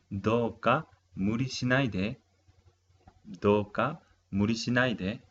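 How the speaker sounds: "Douka muri shinai de" said carefully, with a break after "Douka"; pronunciation model. Shown as a demonstration. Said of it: "vamos a pronunciar". (pronunciar "Douka muri shinai de" con claridad, como modelo)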